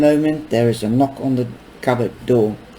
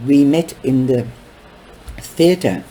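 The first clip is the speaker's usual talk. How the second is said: breathy voice; 2 semitones higher, 4 dB louder than usual. Acted. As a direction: put on a little breathy voice. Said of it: "putting a little breathy voice on".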